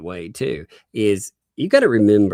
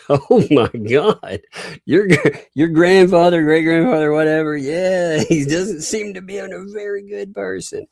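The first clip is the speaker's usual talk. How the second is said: shocked disbelief; 9 semitones higher, 5 dB louder than usual. Real, not acted. Shocked reaction to the Klan hood.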